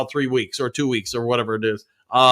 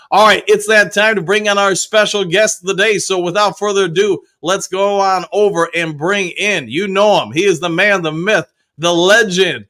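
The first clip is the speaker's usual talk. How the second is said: announcer intro; 3 semitones higher than usual. Acted. Introduces the special guest.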